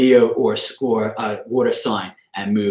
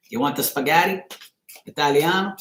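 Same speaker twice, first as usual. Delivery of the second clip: lightly put-on Italian accent; a hint of mock Italian; playful Italian accent; 3 semitones higher than usual. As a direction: toss out a joking Italian impression. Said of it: "I sounded Italian. I can sound whatever".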